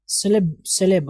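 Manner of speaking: सेलेब with open "e" vowels; correct first syllables. Shown as a demonstration. Teacher drilling the right start, सेलेब as "seh-leb". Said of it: "सेलिब्रेट नहीं होता है".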